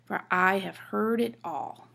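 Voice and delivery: "heard" and "all" held longer, the small words light; stress on HEARD and ALL. Shown as a demonstration. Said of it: "heard is stressed, and all is stressed".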